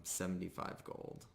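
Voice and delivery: usual speaking voice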